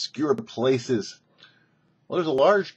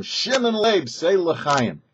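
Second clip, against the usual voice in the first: higher name, then the toast; urging toast; 6 semitones higher, slower than usual. Retold or imitated. The Rebbe calls him a third time, name sung out high.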